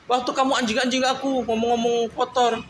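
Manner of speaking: high-pitched imitation of the wife, protesting; mimicking wife. Husband mimics wife accusing him before her father, high-pitched. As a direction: raise the voice high like his wife refusing. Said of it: "retold wife's reply".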